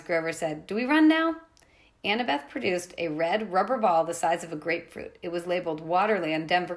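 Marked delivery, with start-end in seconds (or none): 0.7-1.4 high, loud frightened question; terrified friend asking to flee; panicked. Acted. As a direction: squeak it out in panic. Grover panics.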